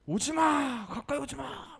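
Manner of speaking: high sharp yell of warning; the trainer shouting at the owner to stay back. Retold or imitated. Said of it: "언성을 높이는 거예요".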